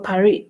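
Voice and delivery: "Paris" with a silent final s; "Paris" as "pa-REE"; French pronunciation. Shown as a demonstration. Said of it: "They say Paris".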